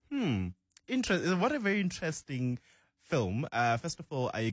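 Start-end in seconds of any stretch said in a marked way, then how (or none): 0.1-3.4 hesitant, higher-pitched noncommittal verdict; hem, then pick the words carefully. Real, not acted. Reviewer hedging on a film just watched, noncommittal. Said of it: "The way you said".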